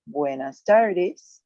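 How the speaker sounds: careful teacher's demonstration, very slow; slow model pronunciation. Shown as a demonstration. Teacher reviewing greetings for the class, slow model pronunciation. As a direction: draw out buenas tardes, slowly. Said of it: "Remember how you say".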